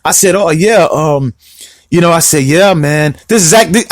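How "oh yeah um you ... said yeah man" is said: low, offhand delivery; casual self-imitation. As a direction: imitate yourself being laid-back and casual. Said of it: "I'm a mimic myself".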